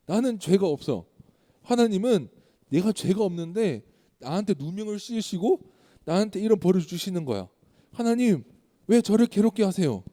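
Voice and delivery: a touch of aggrieved shouting, building toward the end; angry outcry. Acted. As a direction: act out a restrained angry protest to God. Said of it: "이제 막 화를 내면서 소리를 지르면서 말해요".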